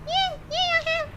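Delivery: high squeaky little box voice. Acted.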